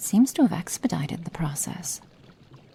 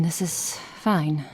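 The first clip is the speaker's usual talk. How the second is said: resigned; slower than usual. Acted. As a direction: let it go, slowly. Exasperated then resigned repeat.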